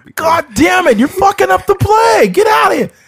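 high-pitched, loud yell. Imagining Coach Chudy yelling at Donald Trump, Coach Chudy yelling impression. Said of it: "imagine Coach Chudy yelling".

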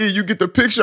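put-on choked-up tone. Retelling calling E after getting a big check: imitating own choked-up voice. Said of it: "my voice all choked up".

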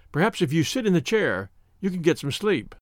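ordinary delivery, nothing marked

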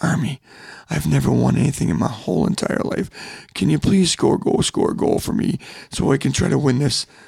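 mock weepy, tearful pleading tone. Retelling a lady on the bench asking for a goal: imitating someone crying. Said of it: "She's crying on the bench".

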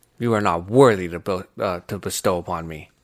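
dead-serious, completely straight delivery. Retelling a character's line before a kill: imitating Gilgamesh, dead serious. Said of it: "Because he fucking looked at him".

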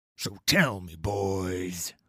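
put-on low, deep rumbling growl, "boys" drawn out. Narrating a story, a man slicing an orange addresses the boys: deep, rumbling growl. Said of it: "His voice is a deep, rumbling growl".

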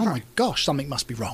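normal talking voice

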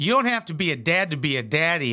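ordinary talk, nothing marked

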